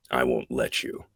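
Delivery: lightly voiced hero, low and soft; a hint of quiet, low menace; Batman. Actor quoting the final speech, lightly voiced low Batman. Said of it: "my version of Batman".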